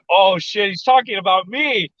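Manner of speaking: high-pitched oh-no realization; mock dread. Trainee realizing the sergeant means him, mock-alarmed. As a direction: lift the pitch in comic alarm.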